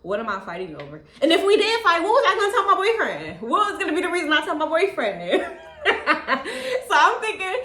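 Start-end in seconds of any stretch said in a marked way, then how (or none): 1.2-7.5 higher and louder, laughing through the words. Real, not acted. Wondering what to tell her boyfriend, laughing. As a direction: laugh it off at the ridiculous idea.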